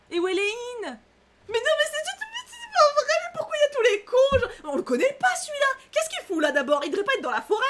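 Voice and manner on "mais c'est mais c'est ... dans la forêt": much higher, louder exasperated whining; mock whine. Player sees yet another jerk, whiny mock despair. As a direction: complain like a sulky child.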